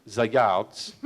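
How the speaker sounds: "the yards" said as "za yalts", French accent; French-style "the yards". Shown as a demonstration. Director mimicking the local French pronunciation, said as za yalts. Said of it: "or as they say here".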